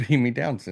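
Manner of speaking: ordinary delivery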